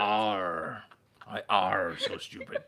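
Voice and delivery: slow, dopey pirate talk; a hint of a silly pirate. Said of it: "Why am I still talking like a pirate?".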